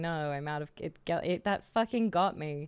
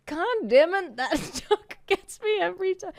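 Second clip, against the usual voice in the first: laughing through words; 10 semitones higher, 7 dB louder than usual. Real, not acted. Laughing at own joke.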